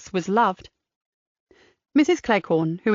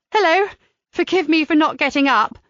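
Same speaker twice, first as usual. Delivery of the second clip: bright greeting, much higher and louder, laughing through it; 6 semitones higher, 4 dB louder than usual. Acted. Mandy greeting visitors from her wheelchair, laughing. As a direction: greet them through a laugh, pitched well up. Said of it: "laughing, said".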